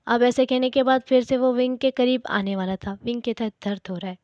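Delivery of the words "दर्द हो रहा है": softer, mildly tearful; a hint of crying in the words. A narrator's reading. Wing, tied up, tells Wang Ji it hurts, lightly tearful. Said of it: "रोते हुए tone में".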